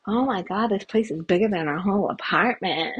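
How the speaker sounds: lightly imitated wowed groupie; a hint of an awestruck film groupie. Groupie entering star's hotel room, lightly acted amazement. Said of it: "she goes in and says".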